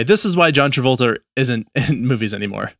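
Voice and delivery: put-on New England accent. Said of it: "that was my New England accent".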